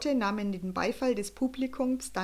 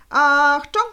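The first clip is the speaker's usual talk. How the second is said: very loud, higher cry of warning; warning shout; 5 semitones higher, 13 dB louder than usual. A narrator's reading. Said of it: "warning shout".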